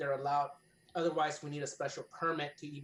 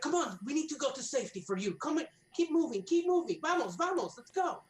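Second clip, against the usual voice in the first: high, loud urging; urgently rallying people; 11 semitones higher, 6 dB louder than usual. Acted. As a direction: hurry a crowd along to safety, voice raised and pitched up. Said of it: "just trying to gather the people".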